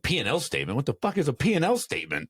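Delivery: mock bewildered outburst, high and fast; baffled. Gym owner mocking his own panic over finances. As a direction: blurt it out, totally lost.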